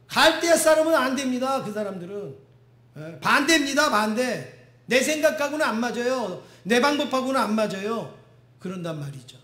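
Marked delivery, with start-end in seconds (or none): 0.1-8.2 loud mock protest. Preacher mocks stubborn believer.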